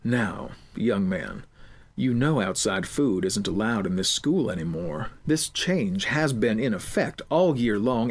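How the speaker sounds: a stern, menacing school official. Acted.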